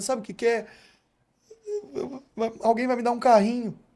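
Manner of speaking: acted, high, trembling, tearful stutter. Speaker retells a young player crying to his coach, imitating a trembling, crying voice. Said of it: "Ele começa a tremer".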